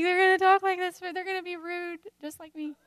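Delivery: high, put-on voice of her kids talking rude; mock rude kid voice. Mom voicing her kids copying her rude talk, mocking.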